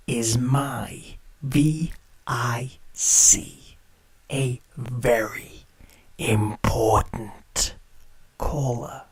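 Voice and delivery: slow, breathy sinister whisper. Acted. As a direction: draw it out in a creepy hush. Host savouring his VIP caller.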